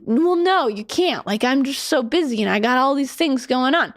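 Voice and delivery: a light East Coast lilt on the busy excuse; hint of an East Coast accent, protesting; slight East Coast accent. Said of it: "a slight East Coast accent when I'm saying this".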